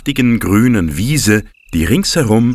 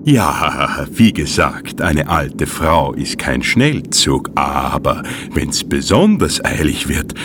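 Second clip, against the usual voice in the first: mischievous; 4 semitones lower, slower than usual. Acted. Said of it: "fügte Grete schelmisch hinzu".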